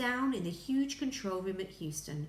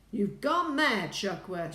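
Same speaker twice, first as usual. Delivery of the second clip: angry shout; 7 dB louder than usual. A narrator's reading. Ground Control to the doubted astronaut, angry shout. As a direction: shout it in exasperation. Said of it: "shouted Ground Control".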